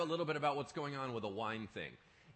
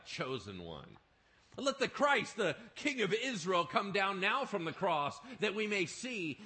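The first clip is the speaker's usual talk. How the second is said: louder and higher, slow mocking taunt; scoffing rulers; 6 semitones higher, 6 dB louder than usual. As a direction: jeer at the man on the cross. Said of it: "They scoffed at him, saying".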